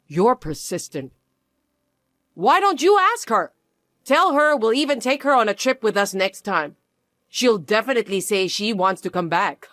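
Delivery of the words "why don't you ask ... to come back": pushy taunt. Acted. In-law pushes mockingly.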